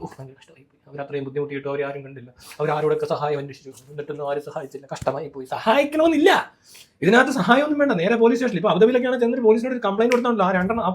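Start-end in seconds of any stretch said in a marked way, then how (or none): 0.0-5.5 soft, mocking sigh of fake sympathy; sarcastic mock sympathy; mock pity. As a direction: parody a hollow condolence post, much softer. Mocking fake social-media sympathy.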